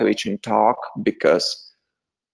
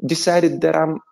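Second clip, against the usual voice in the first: higher-pitched, incredulous retelling; mock disbelief; 5 semitones higher than usual. Actor questions producers who hired him a coach, mock disbelief. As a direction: question it haltingly, pitch raised in amazement.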